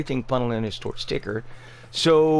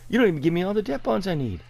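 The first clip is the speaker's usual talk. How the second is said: indignant rant; 4 semitones higher than usual. Real, not acted. Ranting at vendor's prices.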